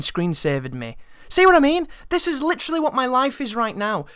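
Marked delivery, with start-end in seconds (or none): 1.3-3.8 exasperated. Real, not acted. Venting at screensaver interruption.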